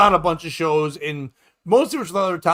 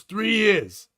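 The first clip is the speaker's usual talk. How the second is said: lightly voiced husband, pitched up, drawn out; husband's answer; 4 semitones higher than usual. Husband answering the comedian on how long they've been married, lightly acted higher reply. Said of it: "And he goes".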